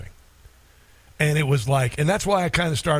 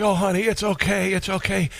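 soothing wife; 4 semitones higher than usual. Retold or imitated. Husband soothing his crying wife, tender and reassuring. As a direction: gently comfort her as she shakes. Comforting weeping wife in bed.

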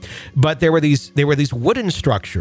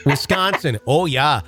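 lightly put-on Wisconsin accent. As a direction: slip into a local Wisconsin accent. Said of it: "my own damn accents".

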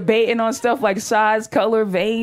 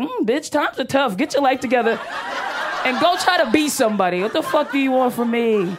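a touch higher, tough-love dismissal; unsympathetic scolding; 3 semitones higher than usual. Acted. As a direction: tell someone off with no sympathy. Unsympathetic reply to crying woman.

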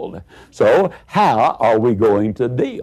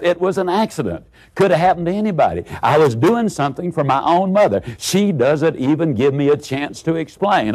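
put-on higher-pitched, hurried self-justifying kid; urażone mamrotanie chłopca; 5 semitones higher than usual. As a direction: play an upset boy protesting his innocence. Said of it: "muttering under his breath".

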